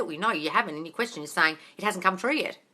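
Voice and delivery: ordinary talk, nothing marked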